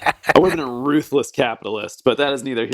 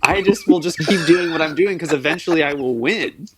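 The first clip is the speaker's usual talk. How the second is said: cocky self-quote; 4 semitones higher than usual. Retold or imitated. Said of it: "I'm like".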